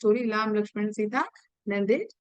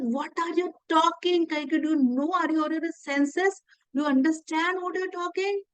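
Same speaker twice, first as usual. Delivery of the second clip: shocked; 5 semitones higher than usual. Retold or imitated. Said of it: "he gets a shock of his life".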